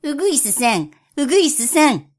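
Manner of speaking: wheedling cat calling sweetly; coaxing sweet voice. Acted. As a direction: sweet-talk the bird closer. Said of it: "猫なで声で呼びかけました".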